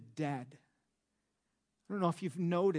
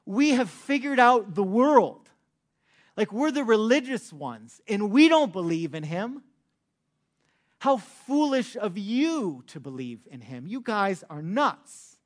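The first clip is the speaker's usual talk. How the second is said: louder, higher smug mockery; smug Pharisees; 4 semitones higher, 7 dB louder than usual. Pharisees boasting to the officers, loud and smug. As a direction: boast like the smart ones, then scoff. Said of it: "what they essentially are communicating, the Pharisees".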